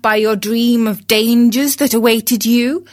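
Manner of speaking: grieving storyteller over music; mournful narrator lament. A narrator's reading. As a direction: lament the rooster's fate like an old ballad.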